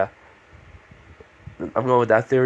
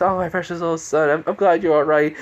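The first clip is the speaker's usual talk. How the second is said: doting mother; 6 semitones higher than usual. Acted. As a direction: gush over a child in a high mock-mother voice. Voices a mother hugging her son.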